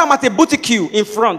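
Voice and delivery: "boutique" said as "boo-tee-cue"; mispronunciation blunder. Retold or imitated. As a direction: end "boutique" on a "kyoo" sound. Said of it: "You now hear blunders everywhere".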